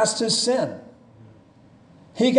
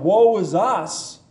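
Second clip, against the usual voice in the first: slow and lifted with hope; a lament with a glimmer of hope; hopeful cry; 2 semitones higher, slower than usual. Retold or imitated. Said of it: "now I think he cries out with hope".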